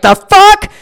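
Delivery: high, loud shocked squawk. Retold or imitated. Daughter reading her dad's misdirected text, shocked high squawk. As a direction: gasp it out in disbelief. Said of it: "And I was like".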